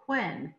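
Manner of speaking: "when" said as hwen; aspirated WH. Retold or imitated. Teacher imitating other teachers, "when" said as hwen. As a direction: put an h puff before the w in "when". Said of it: "teachers who say, "W H says".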